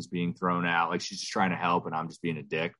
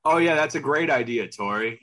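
loud, high mock enthusiasm; sarcastic; 7 semitones higher, 5 dB louder than usual. Husband answering wife's beach suggestion, heavy sarcasm. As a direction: gush with obvious fake approval. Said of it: "teaching the sarcasm".

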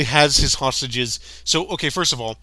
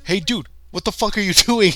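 high, quick, incredulous question with a laugh; mock bewildered robber; 7 semitones higher, faster than usual. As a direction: imitate a baffled robber, half laughing. Acted robber baffled at hero.

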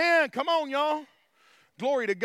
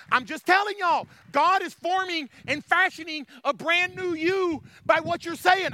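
raised, emphatic preacher's voice; fervent preaching; 6 semitones higher, 4 dB louder than usual. Real, not acted. Preacher telling y'all God forms a new you, fervent preaching. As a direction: drive the promise home.

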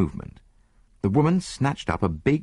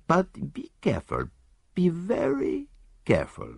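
mild reproof; 4 semitones higher than usual. Acted. Poirot lecturing the disarmed Italian, mild reproof. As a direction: chide him like a naughty child. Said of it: "a tone of mild reproof".

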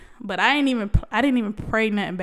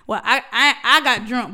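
louder, laughing through it; laughing admission; 6 dB louder than usual. Real, not acted. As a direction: giggle out the confession. Laughing while admitting.

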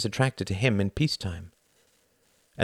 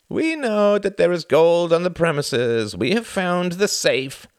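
much higher, slow, louder menace; cold interrogator; 11 semitones higher, 5 dB louder, slower than usual. A narrator's reading. A second gunman demands the gold, slow menace. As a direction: spell it out slowly and coldly. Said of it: "Another voice".

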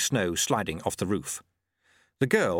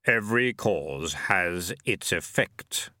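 slow, deep, far-off voice; slow hollow voice of Death; Death speaking; 3 semitones lower, slower than usual. A narrator's reading. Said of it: "he said aloud".

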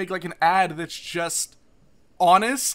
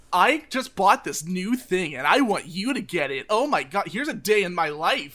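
slow, bright mock influencer; imitating a TikTok influencer voice; 4 dB louder than usual. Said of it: "why the fuck are you putting that voice on".

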